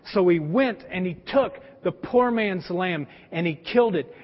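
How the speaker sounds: storyteller prophet. Retold or imitated. Prophet tells parable to king.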